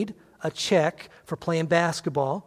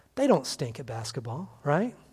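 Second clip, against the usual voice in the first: ordinary talk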